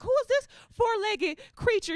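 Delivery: high, loud cooing over a dog; put-on gushing voice. Acting white to a dog owner, high gushing voice. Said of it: "I was like".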